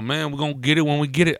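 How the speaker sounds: hint of a hurried counter worker; counter guy. Counter guy answering an impatient customer, quick retort. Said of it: "the other guy behind the counter was all".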